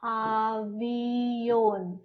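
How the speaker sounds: avión said softly and slowly while writing; half to herself, writing it down; soft demo. Shown as a demonstration. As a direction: quietly sound out avión. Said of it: "this is".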